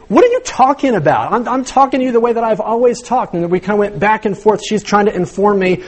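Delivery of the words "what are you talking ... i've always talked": higher-pitched, puzzled self-defence; mock bafflement. Husband insisting to wife he talks normally, mock baffled. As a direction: protest innocence, playfully acted out.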